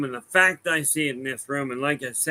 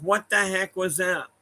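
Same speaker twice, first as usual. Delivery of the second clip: higher-pitched imitation of a startled man; mildly acted startled disbelief; retold bewilderment; 5 semitones higher than usual. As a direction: act out his baffled reaction. Startled man's reaction retold.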